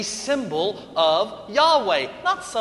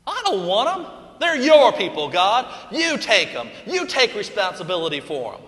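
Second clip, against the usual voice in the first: Moses arguing with God; 4 semitones higher, 4 dB louder than usual. Acted. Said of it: "I don't blame Moses".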